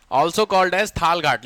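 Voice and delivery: very slow, word by word for notes; slow dictation. Shown as a demonstration. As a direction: dictate it slowly so they can write. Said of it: "dash करके लिखो". (धीरे धीरे लिखवाते हुए)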